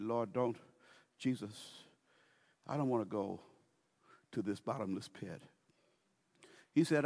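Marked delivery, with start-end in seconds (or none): 0.0-5.4 soft pleading. Acted. Demon pleading.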